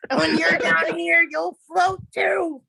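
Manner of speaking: slow, creepy clown taunt; lightly voiced sinister clown; Pennywise clown voice. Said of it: "talk like the clown in that voice".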